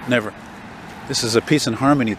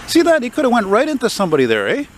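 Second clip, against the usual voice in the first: outraged yell; 11 semitones higher than usual. Real, not acted. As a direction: shout at the reckless driver. Outraged at a bad driver.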